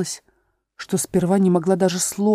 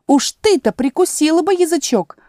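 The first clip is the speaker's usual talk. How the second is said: high, loud scolding exclamation; exclaiming; 10 semitones higher, 5 dB louder than usual. A narrator's reading. The tiger lily scolding the violet. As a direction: rebuke sharply and high. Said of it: "воскликнула тигровая лилия".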